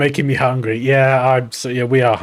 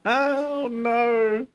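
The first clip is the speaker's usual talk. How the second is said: high squeak; 9 semitones higher, 3 dB quieter than usual. Real, not acted.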